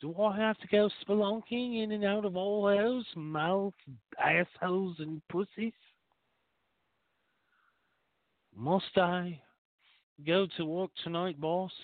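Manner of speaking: high, eager little sidekick voice asking the boss; squeaky eager underling pleading with his boss; talking penis voice. Acted. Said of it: "penis perks up and he goes".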